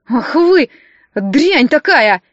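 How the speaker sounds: визгливо, громче, «дрянь такая» медленно; доктор визжит, брызжа слюной; визг. A narrator's reading. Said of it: "завизжал, брызжа слюной". (визгливо и громче, с растяжкой)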